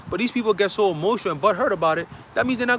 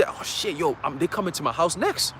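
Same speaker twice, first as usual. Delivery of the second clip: acted fear; 3 semitones lower, 6 dB quieter than usual. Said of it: "you gonna be shaking".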